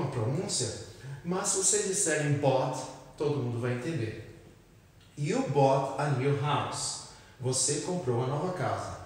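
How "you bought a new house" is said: slow model sentence. Shown as a demonstration. Teacher models sentence slowly.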